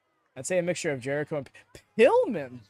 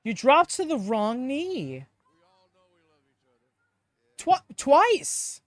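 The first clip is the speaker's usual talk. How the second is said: excited callout; 6 semitones higher, 5 dB louder, slower than usual. Real, not acted. Calling out wrestler's mistake.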